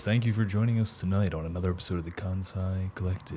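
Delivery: smooth late-night radio host. Shown as a demonstration. Host welcomes podcast listeners, FM radio voice. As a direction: put on a soothing FM presenter voice. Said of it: "My F M radio voice".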